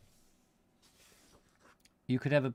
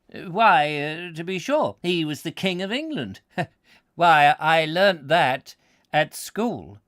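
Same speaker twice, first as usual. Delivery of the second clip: lightly voiced country yokel, slow; a hint of an old rural villager's drawl; rustic villager; 4 semitones higher, 7 dB louder, slower than usual. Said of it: "We could not resist the question".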